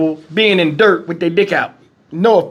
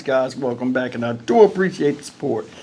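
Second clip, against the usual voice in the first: gasping between phrases; breathless, catching air between words; out of breath; 6 semitones lower, 5 dB quieter than usual. Real, not acted. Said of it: "I'm out of breath".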